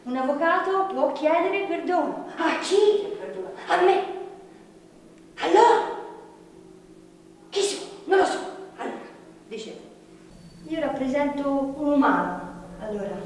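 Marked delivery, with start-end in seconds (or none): 2.4-8.4 mocking laugh.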